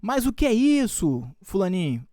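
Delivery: high, loud startled scolding of a pet; mock scolding. Teacher acting out scolding the dog over the cake, high and loud. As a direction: tell off the little dog caught eating cake. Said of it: "O que que você vai falar?".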